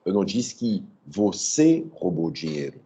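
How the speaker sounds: "você" lifted with a rising tune; "você" stressed, rising, as if accusing someone else. Shown as a demonstration. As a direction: point the sentence at "você". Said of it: "Quem roubou?".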